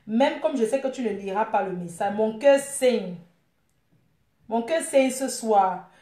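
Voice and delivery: lightly declaimed lover's lament; a touch of staged heartbreak; heartbroken message. Pretend. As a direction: recite a wounded love message, drawing out the ends.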